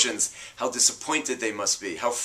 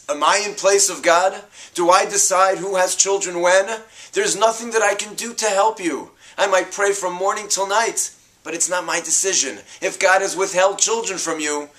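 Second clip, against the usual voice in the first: higher, louder indignant retort; angry; 6 semitones higher, 3 dB louder than usual. Acted. Yaakov snapping at his wife Rachel, angry and louder. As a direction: snap back defensively. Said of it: "He gets angry".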